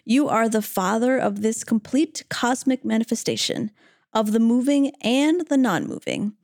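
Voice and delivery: measured verse reading with pauses; scripture reading. Acted. Reading Arjuna's verse to fellow hosts, reverent recitation. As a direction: read it out phrase by phrase, reverently.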